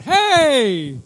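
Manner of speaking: high, loud hailing shout; demonstrated shout. Shown as a demonstration. Preacher shows that even shouting falls short, loud shout. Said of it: "even if you were to shout".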